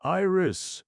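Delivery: high, loud call across the water; loud searching call. Acted. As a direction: call her name loudly. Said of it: "Hugo called".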